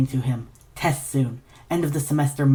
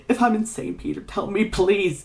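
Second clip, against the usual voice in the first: desperate plea; 6 semitones higher than usual. Acted. Ignatius begs Peter for reassurance.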